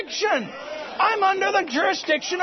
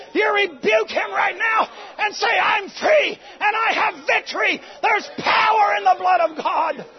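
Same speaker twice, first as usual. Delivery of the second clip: raised, ringing preacher's call to the congregation; preaching at full force; 3 semitones higher than usual. Real, not acted. Preacher rousing the congregation to rebuke the devil, full-force preaching.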